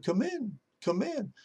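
high, soft squawky "come in"; parrot voice. Acted. Parrot calling the pastor in from the kitchen, squawky. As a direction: call it out like a parrot.

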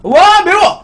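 gasping from the heat; mouth burning from spicy food. Real, not acted. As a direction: blurt it out, mouth on fire. Eating very spicy food, reacts.

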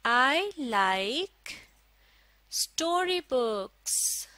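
very slow, a pause after each word; word-by-word model reading. Shown as a demonstration. Teacher models a sentence for learners, word by word. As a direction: space out every word for learners.

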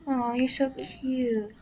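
slow tender aw; cooing. Real, not acted. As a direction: coo at something cute. Cooing at a creature.

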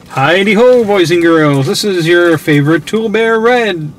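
booming fake show-host welcome; mock kids' TV host. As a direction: play a cheesy kids' TV presenter.

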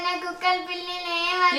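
quick whining sing-song; tearful refusal. Acted. Child refusing dogs and cats, whining tearfully. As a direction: whine it through crying. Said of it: "ఎందుకు ఏడుస్తున్నావు".

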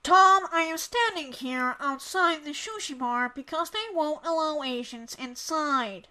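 lightly voiced news correspondent reporting live; Asian woman reporter. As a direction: report it to the anchor in character. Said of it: "I can do the Asian women".

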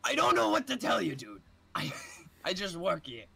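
high, lightly voiced bored clerk; bored cashier. Cashier brushing off the angry customer, mildly bored. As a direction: shrug it off as a clerk. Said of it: "you can be the cashier".

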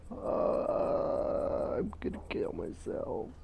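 soft, breathy deadpan; mock despair. Real, not acted. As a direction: whisper it, defeated. Despair after losing customer.

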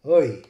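oi said loudly as schwa gliding to ee; oi, a loud regional long I; schwa then E. Shown as a demonstration. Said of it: "the schwa and then the E".

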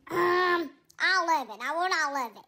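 timid cat Tigger. Acted. Greedy Tigger.

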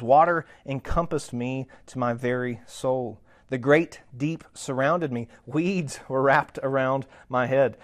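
slow, emphatic Bible reading; scripture reading. Acted. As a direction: read the prayer out slowly, weighing each phrase.

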